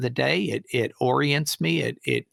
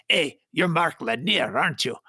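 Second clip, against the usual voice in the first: put-on Hispanic accent; 3 semitones higher than usual. Extra approaching Mark Lanier on a film set, Hispanic accent. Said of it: "a Hispanic accent".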